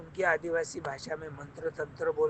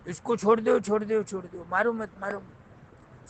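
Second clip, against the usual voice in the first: raised, insistent appeal for mercy; urgent pleading; 3 semitones higher than usual. Acted. Soldier urging the tribal chief to spare the captive, insistent pleading. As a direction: plead to stop them, starting higher.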